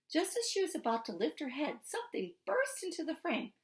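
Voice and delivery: expressive read-aloud to a class; lively storybook reading voice; story narration. A narrator's reading. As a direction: tell it like a storybook for students. Teacher reads novel chapter aloud.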